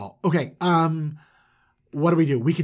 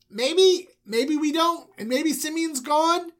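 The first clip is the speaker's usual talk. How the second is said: tentative suggestion; 13 semitones higher, slower than usual. Acted. Son hesitantly suggesting to father.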